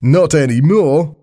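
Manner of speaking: high, drawn-out cheerful Australian reply; very happy Australian. A narrator's reading. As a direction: happily break the news in an Australian accent. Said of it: "sounding very happy about it".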